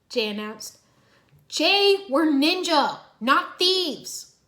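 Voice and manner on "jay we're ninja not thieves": high, loud scolding. A narrator's reading. Cole scolds Jay for the plan, scolding. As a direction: scold him sharply. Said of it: "Cole scolded".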